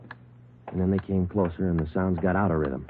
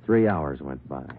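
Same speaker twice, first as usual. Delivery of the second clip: steady, dry police-report narration; crime story narration. A narrator's reading. Detective narrating the stakeout to the listener, level and dry. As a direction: tell it flat and matter-of-fact, like a case log.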